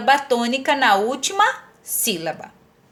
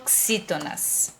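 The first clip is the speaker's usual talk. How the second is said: "oxítonas" with a long held first "o", low and soft; slow, low "ooo-xítonas"; drawn-out key term; 8 semitones lower, 11 dB quieter, slower than usual. Shown as a demonstration. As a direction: stretch the opening of "oxítonas", then let it fall. Teacher stretches the new term.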